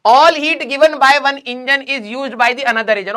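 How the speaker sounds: reading the question out very slowly. Shown as a demonstration. Teacher reads the exam question to students, very slow. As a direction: drag out each word of the question.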